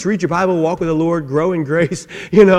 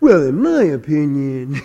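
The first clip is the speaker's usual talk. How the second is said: put-on foolish voice, full of opinions, know-it-all; 3 semitones lower than usual. Acting out how the fool from Proverbs talks, put-on fool's voice. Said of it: "I'm making that voice to be the fool".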